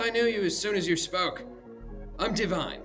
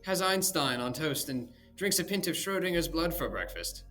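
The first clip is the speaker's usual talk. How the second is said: raised, sneering flourish; mock praise; 7 semitones higher, 6 dB louder than usual. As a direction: lay the praise on thick.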